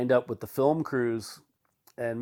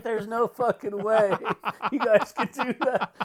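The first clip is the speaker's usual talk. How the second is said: laughing disbelief; 9 semitones higher than usual. Retold or imitated. Doug quoted, laughing disbelief.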